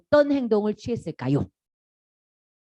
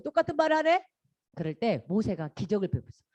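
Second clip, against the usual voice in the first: ordinary talk, nothing marked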